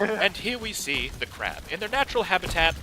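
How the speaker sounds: lightly voiced nature documentary narrator; hushed documentary narration, barely put on; David Attenborough impression. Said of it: "if I could do a good David Attenborough impression".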